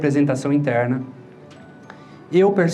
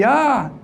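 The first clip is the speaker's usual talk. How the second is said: retold scream; 9 semitones higher than usual. Retelling a childhood cockroach scare, high mock scream. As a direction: cry out high, imitating a startled yell. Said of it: "eu gritei".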